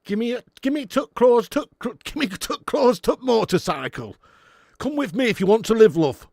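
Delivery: a Yorkshire Terminator demanding; Yorkshire Arnie. Pretend. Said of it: "Yorkshire Arnie".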